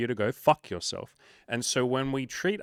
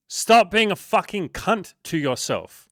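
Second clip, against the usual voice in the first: slow, much higher, much louder yell to jolt him; shocking shout; 9 semitones higher, 9 dB louder, slower than usual. Real, not acted. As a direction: slap sense into him with a loud, slow shout. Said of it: "I hope that slapped some sense into you and shocked you".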